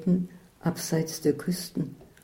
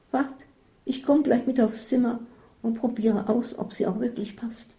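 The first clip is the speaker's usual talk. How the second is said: higher-pitched voice for Isabel; Isabel, eager friend; 6 semitones higher than usual. Acted. Isabel offers to try the glasses, higher voice. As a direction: lift the pitch for Isabel's reply.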